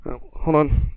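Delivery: talking inside a gas mask; muffled mask voice; muffled through gas mask. Real, not acted. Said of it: "I'll put the mask on".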